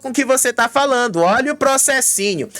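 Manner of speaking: mock warning. Acted threat inside a retold quarrel.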